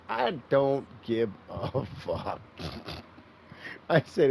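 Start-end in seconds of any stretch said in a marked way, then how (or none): 0.1-2.4 laughing. Retold or imitated. Laughing through retold line.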